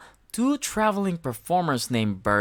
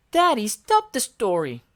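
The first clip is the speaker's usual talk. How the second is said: put-on much higher, bright childlike voice; Elmo voice; 7 semitones higher, 5 dB louder than usual. A narrator's reading. Elmo answering Smudge, high and perky. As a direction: chirp it like a cheerful little monster. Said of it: "Elmo said".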